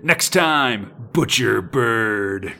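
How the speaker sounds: slow, ominous announcer drawl; dramatic teaser. Acted. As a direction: deliver it like a comic cliffhanger. Comic teaser read with heavy drama.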